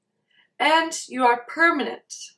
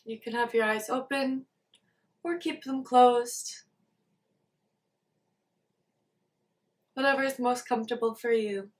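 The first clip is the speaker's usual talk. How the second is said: soft, unhurried meditation guidance with long pauses; guided meditation; 4 dB quieter than usual. Acted. Teacher leading listeners to check in with body and mind, guided meditation. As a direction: gently guide listeners to settle into awareness.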